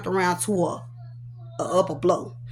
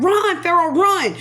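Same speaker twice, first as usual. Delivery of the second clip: higher-pitched call to flee; retold urgent call; 7 semitones higher, 3 dB louder than usual. Mother fleeing with baby calls to son, retold urgent cry.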